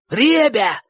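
high-pitched appeal to the gang; desperately hopeful shout. A narrator's reading. Bocho appeals to the boys, desperately hopeful shout. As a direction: cry out, clinging to hope. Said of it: "крикнул Бочо с отчаянной надеждой".

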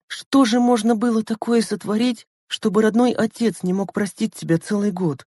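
high-pitched, mildly sobbing question; tearful. A narrator's reading. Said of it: "всхлипнула Лена". (всхлипывая, тонким голосом)

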